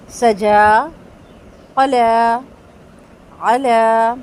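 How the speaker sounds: سجا قلا علا with the short vowel clipped; blink-length zabar. Shown as a demonstration. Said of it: "زبر صرف پلک جھپکنے تک". (زبر ایک حرکت، مختصر)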